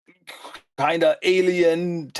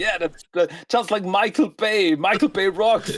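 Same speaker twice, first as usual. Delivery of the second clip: a hint of a goofy turtle cheering; lightly voiced excited fan; imitating Michelangelo; 3 semitones higher than usual. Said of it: "Michelangelo is like".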